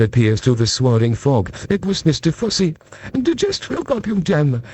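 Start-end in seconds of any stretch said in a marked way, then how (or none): 3.1-4.6 mild mock yell. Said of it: "he yelled".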